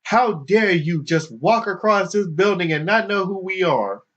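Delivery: lightly voiced indignation; indignant protester. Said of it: "the most vocal person of the group".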